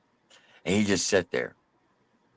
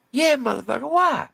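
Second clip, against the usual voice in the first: much higher, squeaky hostile bravado; aggressive high-voiced tough guy. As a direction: private snarling at the inmate. Private snaps.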